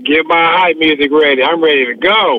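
echoing, far-off room sound; hallway echo. Real, not acted. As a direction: speak from an echoey stadium tunnel. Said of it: "You sound like you're in the hallway".

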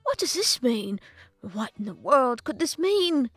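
slow, emphatic, excited wondering; excited professor. A narrator's reading. Professor puzzles over the dancing babies, excited. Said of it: "jumping up and down".

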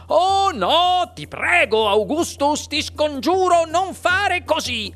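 high, pleading outcry; urgent cry. A narrator's reading. Factory owner begging the boy not to touch chocolate, alarmed cry. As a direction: beg in alarm, pitch jumping up. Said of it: "gridò subito".

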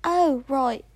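an American girl holding a mock British accent; put-on British accent. Kid podcaster dedicating her show to Oscar, British accent. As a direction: keep up a playful fake British accent all the way. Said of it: "speak in a British accent 'cause he's never heard my real voice".

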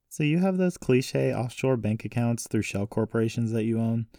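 a hint of a young heroine's voice; questioning granddaughter.

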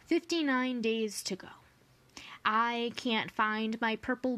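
put-on bright, lilting read-aloud for children; cheerful children's poetry recital; poem reading. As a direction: share the summer daydream with young listeners.

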